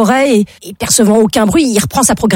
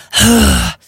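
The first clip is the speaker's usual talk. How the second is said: audible acted sigh; sigh of tension. Burglar frozen in the dark, tense sigh. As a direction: let out a long breath.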